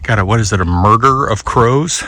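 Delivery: winded from climbing a hill; out of breath. Real, not acted. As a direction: talk while catching your breath. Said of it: "Sorry, I'm out of breath".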